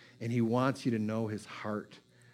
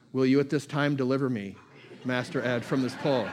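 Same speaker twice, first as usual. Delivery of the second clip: pleading dog. Retold or imitated. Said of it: "He's just like".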